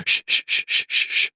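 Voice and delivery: breathy shush to silence her; soft, voiceless shh, shh, shh; repeated shushing. Retold or imitated. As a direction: hush someone over and over. Retelling Henji shushing Lisa.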